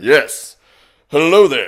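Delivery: very loud, booming, high, animated cartoon superhero voice. Describing a Namekian character's voice, then demonstrating a cartoon superhero voice. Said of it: "cartoon superhero is the way I would describe it".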